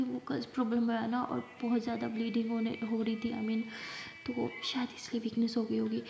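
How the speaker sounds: very soft, hesitant patient voice; weak, subdued. Acted. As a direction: explain it softly, as if drained. Weak patient hesitantly explains her illness. (धीमी, कमज़ोर आवाज़ में)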